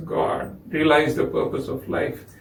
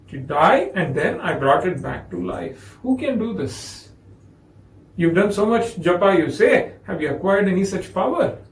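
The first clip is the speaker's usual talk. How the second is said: impatient scolding. Retold or imitated. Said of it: "He was really angry".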